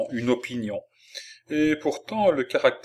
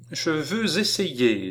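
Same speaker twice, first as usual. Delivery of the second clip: put-on slow, high, determined child; declaring; 6 semitones higher, slower than usual. A narrator's reading. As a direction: declare it firmly, drawing out each word. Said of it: "déclara-t-elle". (déclaration lente et résolue)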